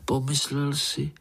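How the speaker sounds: plain reading voice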